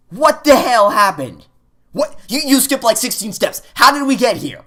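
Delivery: high, loud disbelief; incredulous. Real, not acted. Player to the game, high pitched disbelief. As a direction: demand an answer, baffled.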